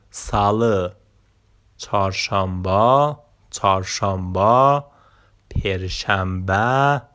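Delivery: ساله, چهارشنبه, پرشنبه and جوما each said slowly and clearly; careful pronunciation. Shown as a demonstration. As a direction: drill the day names for learners.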